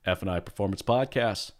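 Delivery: big, bright announcer intro; radio announcer voice. Pretend. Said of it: "That is my best radio announcer voice".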